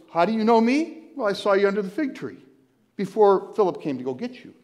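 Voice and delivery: mock amazement at the leap; where'd that come from, amazed; incredulous. Quick mock dialogue replay.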